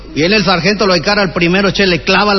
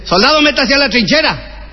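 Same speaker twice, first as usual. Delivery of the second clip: questioning the recruit sharply, pitched up; barking sergeant; 6 semitones higher than usual. Acted. Sergeant to recruit at drill, a raised barking demand. Officer orders a soldier.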